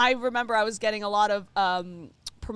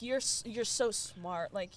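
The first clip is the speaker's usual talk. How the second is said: soft admiring; 4 semitones lower, 10 dB quieter than usual. Retold or imitated. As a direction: gush softly in awe. Quoting herself gushing to dentist.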